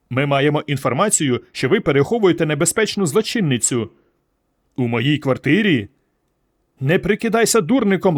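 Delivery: a stern officer lording it over a suspect; mild hint of a rough police sergeant; bullying cop. Police officer bullies Gerston.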